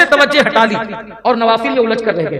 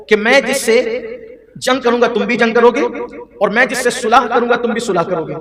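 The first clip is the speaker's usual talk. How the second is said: ordinary talk, nothing marked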